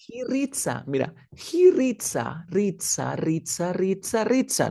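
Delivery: "reads a" said as "reet-sa" with voiceless ts; wrong S linking. Shown as a demonstration. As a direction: hiss the s in "reads a", no buzz. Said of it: "No, no es reads a".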